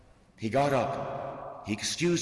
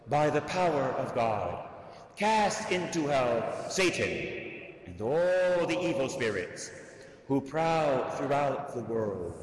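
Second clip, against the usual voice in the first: recited prayer. Acted. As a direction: pray it aloud like a litany. Recites the Saint Michael prayer.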